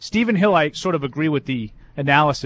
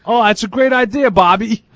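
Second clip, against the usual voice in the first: louder, higher sarcastic praise; mock sarcastic praise; 5 semitones higher, 6 dB louder than usual. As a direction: fake praise for a bad idea.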